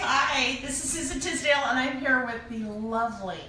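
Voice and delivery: gushing red carpet chatter. Acted. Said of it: "gushing red carpet chatter".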